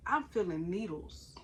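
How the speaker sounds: breathy whisper. Real, not acted. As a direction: drop to a whisper. Measures show whisper.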